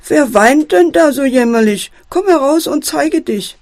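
ruft laut, mit gehobener Stimme; mäßig laut nach dem Weinenden rufen; lautes Rufen. Acted. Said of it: "ruft der Fuchs laut". (der Fuchs ruft laut in den dunklen Raum)

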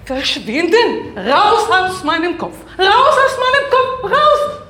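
high loud shouting, building; frantic shout. Acted. Woman yells at the voice inside her head. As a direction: drive the voice out of your head.

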